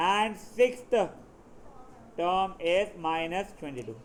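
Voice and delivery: very slow, drawn-out dictation; dictating a question. Real, not acted. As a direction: dictate piece by piece to the class, with pauses.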